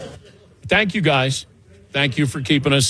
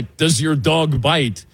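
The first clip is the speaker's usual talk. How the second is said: mock French inspector; much slower than usual. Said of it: "the scene in Pink Panther".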